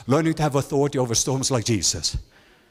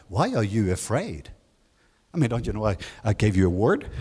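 calm Jesus; 5 semitones lower than usual. Retold or imitated. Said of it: "he's like".

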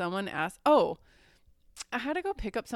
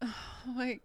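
loud, slow, drawn-out oh my God; exasperated; 3 semitones higher, 13 dB louder, much slower than usual. Real, not acted. Reacting to the story, slow exasperated groan. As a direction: groan it in disbelief.

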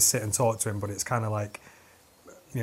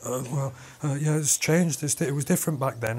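slightly higher, stumbling mock excuse; flustered excuse; 3 semitones higher than usual. Fake veteran questioned by a real soldier, flustered. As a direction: stammer like a bluffer caught out.

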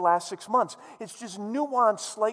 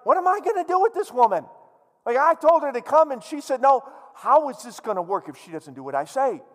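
whiny king; 5 semitones higher, 6 dB louder than usual. Acted. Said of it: "he's like".

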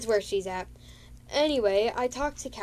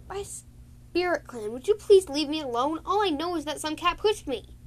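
higher, louder fed-up cat; exasperated plea; 7 semitones higher, 6 dB louder than usual. Retold or imitated. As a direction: beg to be left alone. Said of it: "Silver Scale was like".

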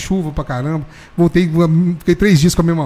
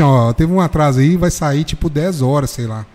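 mock driver's announcement; 2 semitones lower, slower than usual. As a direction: drag the bad news out slowly.

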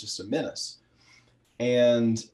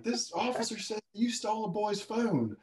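mom repeating; 11 semitones higher, 4 dB quieter than usual. Retold or imitated. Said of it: "He's like".

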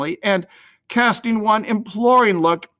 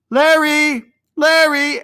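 much higher, louder call down the hall; 10 semitones higher, 5 dB louder, slower than usual. A narrator's reading. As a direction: call the lost boy through the house. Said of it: "went out through the hall calling".

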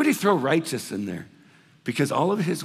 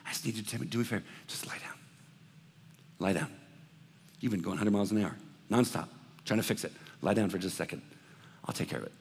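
softer and lower, near a whisper; gentle voice of Jesus; 4 semitones lower, 7 dB quieter, much faster than usual. Acted. Pastor voicing Jesus to an exhausted listener, hushed and tender. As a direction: coax a tired friend to lie down.

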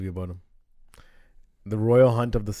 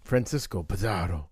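slow dramatic announcement; 3 semitones lower, 5 dB quieter, slower than usual. Pretend. Announcing the topic slowly.

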